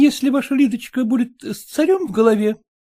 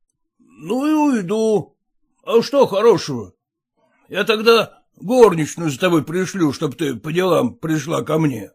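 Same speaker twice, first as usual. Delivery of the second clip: lightly voiced sulking suitor; 7 semitones lower than usual. A narrator's reading. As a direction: give in with a sulk. Voices Lifanov.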